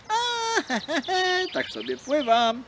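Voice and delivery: high, loud nervous heh-heh; sheepish chuckle. Acted. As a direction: laugh off the trouble, pretending all is fine. Fox hides trouble, laughing.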